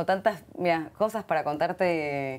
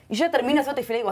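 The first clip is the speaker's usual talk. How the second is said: ordinary talk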